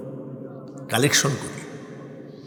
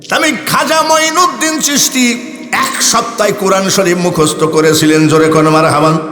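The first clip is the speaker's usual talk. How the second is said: rising preacher fervour; 3 semitones higher than usual. Acted. Preacher's sermon-style exclamation.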